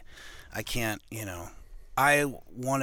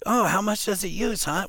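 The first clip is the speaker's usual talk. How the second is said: high, loud mock wondering; feigned curiosity; 9 semitones higher, 5 dB louder than usual. Turning to his buddy Roger, mock-curious question. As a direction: ask it high and loud, playing innocent.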